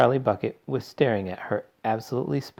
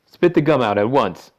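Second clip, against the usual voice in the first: loud fatherly command; stern order; 4 semitones higher, 8 dB louder than usual. A narrator's reading. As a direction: order her, no arguing. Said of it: "ordered Missus, Mister Beauregard".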